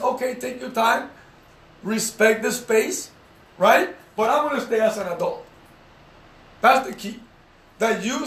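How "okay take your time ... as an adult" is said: patient reassuring take, the right way; calm and patient, in plain voice. Shown as a demonstration. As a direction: give them space, unhurried. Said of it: "What you do is".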